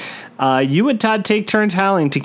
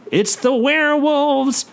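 mock whisper; 10 semitones higher, slower than usual. A narrator's reading. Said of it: "Todd whispers".

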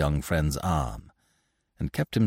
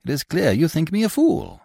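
higher, amused scornful disbelief; amused taunting of Binet; mocking laugh in the voice; 10 semitones higher, 4 dB louder than usual. A narrator's reading. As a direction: scoff at his talk of honour. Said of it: "André Louis laughed".

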